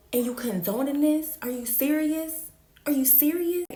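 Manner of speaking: high, loud, incredulous yell; hurt and outraged at him; hurt disbelief. Retold or imitated. At the boyfriend caught cheating, high outraged yelling.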